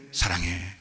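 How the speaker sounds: low, soft and tender; soft I love you. Retold or imitated. Husband softly telling his wife he loves her, low and soft. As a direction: say it barely above a breath.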